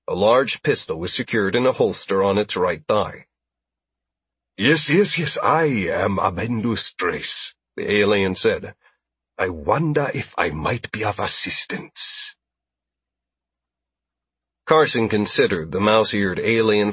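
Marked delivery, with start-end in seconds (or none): 4.6-7.6 eager alien trader. A narrator's reading. Alien trader Abendu speaks. 9.4-12.4 eager alien trader. A narrator's reading. Alien trader Abendu speaks.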